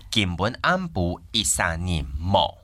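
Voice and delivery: slow careful Hakka "紧本安补一三年某"; Hakka pronunciation. Shown as a demonstration. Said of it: "我们用客家话讲就是".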